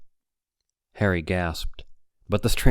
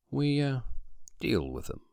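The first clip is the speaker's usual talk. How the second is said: quiet menace; 6 semitones higher, 7 dB quieter than usual. A narrator's reading. Sinister pause.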